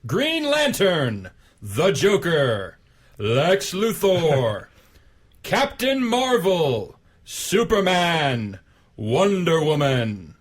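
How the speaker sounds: very slow, drawn-out name calls; announcer voice. Pretend. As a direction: announce each hero like a fighting game. Reading DC list announcer-style.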